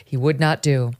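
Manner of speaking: put-on old Hollywood newsreel voice, laughing through; mid-Atlantic accent. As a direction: read it like a fifties movie narrator. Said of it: "mid-Atlantic accent".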